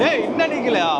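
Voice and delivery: shouting over the ride; strained, high, mid-ride; on a roller coaster. Real, not acted. Ride still going.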